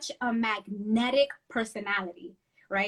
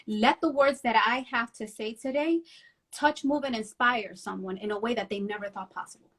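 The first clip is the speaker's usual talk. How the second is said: prayerful. Retold or imitated. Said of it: "And I say".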